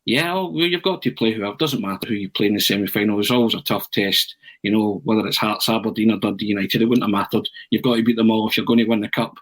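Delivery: understated matter-of-fact retelling; deadpan. Retold or imitated. Manager answers a reporter's question on the draw, deadpan. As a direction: imitate a manager answering with dry indifference. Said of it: "Walter, very deadpan, says".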